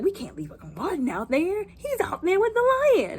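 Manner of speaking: mock distressed protest; imitated pleading daughter. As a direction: plead for the uncle left behind. Daughter pleading for her uncle.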